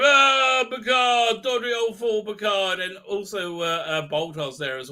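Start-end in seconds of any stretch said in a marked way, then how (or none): 0.0-2.8 high, loud theatrical rant; mock shouting. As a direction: imitate someone yelling at an old fool. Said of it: "starts shouting".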